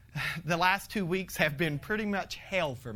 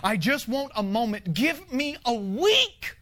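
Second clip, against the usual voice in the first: desperate tired plea; pleading prayer; 4 semitones higher than usual. Retold or imitated. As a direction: plead with God for breathing room. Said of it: "this was the terminology that I used".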